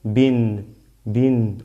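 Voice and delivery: "bin" with a clear n at the end; short i closed by a held n in "bin"; nunation ending. Shown as a demonstration. Teacher showing double kasra, "bin" ending in sounded n. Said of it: "entonces se pronuncia".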